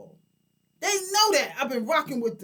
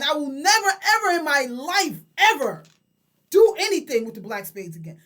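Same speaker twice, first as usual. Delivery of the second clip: emphatic vow; 6 dB louder than usual. Real, not acted. Vows never to work with them.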